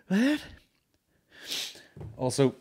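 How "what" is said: sudden gasp then high startled what; gasp, then squeak out what in shock. Retold or imitated. Imagining hearing of a helicopter crash, gasping in high shock. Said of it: "you'd be like".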